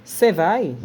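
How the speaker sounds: clipped Brazilian "Cê" for você; colloquial cê. Shown as a demonstration. Teacher shows how Brazilians shorten você, casual. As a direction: drop the first syllable, say "Cê vai". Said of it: "a gente fala o quê?".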